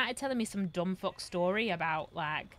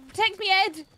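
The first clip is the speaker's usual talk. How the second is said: panicked plea; 10 semitones higher, 9 dB louder than usual. Acted. Panicked plea during attack.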